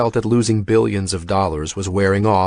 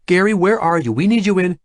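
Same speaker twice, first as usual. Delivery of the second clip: urgent; 10 semitones higher than usual. A narrator's reading. Urgent call on the phone.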